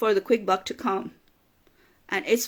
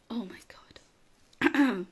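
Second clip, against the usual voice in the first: whispered under the breath, slow, fighting tears; real emotion, barely voiced; choked whisper; 4 dB quieter, much slower than usual. Real, not acted. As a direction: gather yourself in a whisper. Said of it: "I'm flipping crying".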